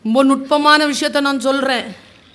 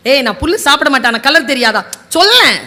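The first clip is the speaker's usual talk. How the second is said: louder exasperated retort rising at the end; irritated tiger; 4 dB louder than usual. Acted. Tiger snaps back at the donkey, irritated. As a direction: demand the answer impatiently.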